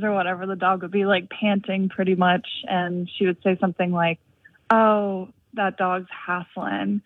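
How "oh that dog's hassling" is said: lightly imitated Southern accent, drawn out at the end; a touch of a North Carolina Southern drawl. Caller quotes her college friend, light Southern accent. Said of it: "in her Southern accent".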